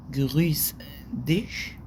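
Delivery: breathy informal "جرويس ديش" under the breath; whispered aside. Shown as a demonstration. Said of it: "دي انفورمال".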